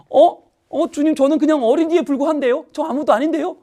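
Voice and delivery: put-on high, startled little child's voice; a child caught off guard; surprised child. Child protesting to God that he is nobody, high and surprised.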